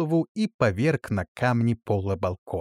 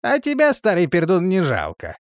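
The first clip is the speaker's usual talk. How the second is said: offhand; 6 semitones higher, 4 dB louder than usual. A narrator's reading. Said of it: "небрежно ответил".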